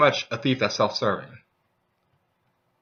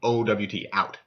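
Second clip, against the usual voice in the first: stubborn refusal. Retold or imitated. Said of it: "I'm like".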